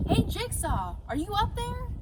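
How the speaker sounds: calling up to the treehouse, high and loud. Acted. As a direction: shout up the ladder. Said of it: "a voice called out".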